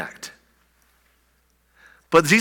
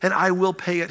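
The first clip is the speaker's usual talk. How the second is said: pleading; 5 semitones higher than usual. Acted. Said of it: "he pleaded".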